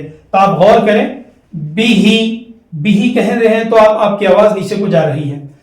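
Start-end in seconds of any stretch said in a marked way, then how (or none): 1.8-3.1 बिही with each i sliding downward; falling zer vowel. Shown as a demonstration. Teacher showing pupils the zer vowel falling. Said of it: "जेर की आवाज नीचे को जाती है".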